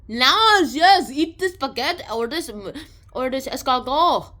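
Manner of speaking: high, loud, pushy sales call; eager vendor pitch. Retold or imitated. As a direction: shout it out like a street vendor hawking food. Vendors pushing their food.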